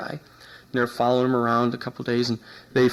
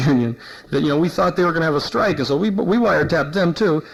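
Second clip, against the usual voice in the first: nervous confession; 3 semitones higher than usual. Retold or imitated. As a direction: spill it all like a cornered informant. Scared cop spilling everything.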